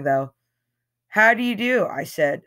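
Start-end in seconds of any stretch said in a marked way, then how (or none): 1.1-1.9 suave. A narrator's reading. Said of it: "suave as hell, boy".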